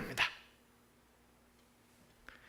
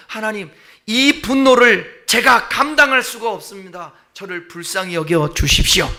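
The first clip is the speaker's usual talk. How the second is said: desperate plea; 6 dB louder than usual. Acted. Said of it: "고백하는 거예요".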